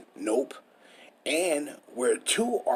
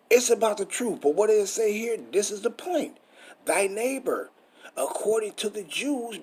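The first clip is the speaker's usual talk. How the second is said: preaching loud; 7 semitones higher, 3 dB louder than usual. Real, not acted. Preacher rising to full force.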